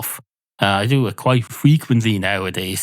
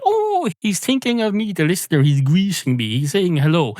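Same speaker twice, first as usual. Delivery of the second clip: excited listener; 6 semitones higher than usual. Retold or imitated. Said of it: "Don't say".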